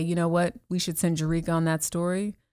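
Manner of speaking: ordinary talk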